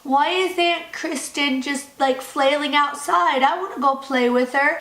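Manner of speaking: a hint of a whiny child, slow at first; lightly voiced little kid. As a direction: play the kid asking innocently. Voicing the kid in retold scene.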